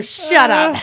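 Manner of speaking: loud, high mock yell; hammed-up indignant shout; exasperated outburst. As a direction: cut them off in playful outrage. Retold snapping at waiters.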